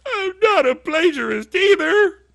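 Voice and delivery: high, whiny mock sob; mock crying. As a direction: wail it like a hurt child, hammed-up. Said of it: "I was pretty upset".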